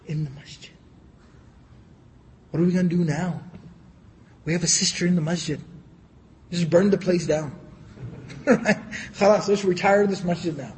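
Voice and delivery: mock horrified gasp, then dry sarcasm; mock outrage. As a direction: pretend to be scandalised, tongue in cheek. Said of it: "I'm being facetious, I'm being sarcastic".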